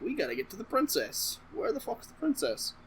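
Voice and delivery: high-pitched frantic question; high panicked. Retold or imitated. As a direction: squeal it in mock panic. Panicked Jedi quote.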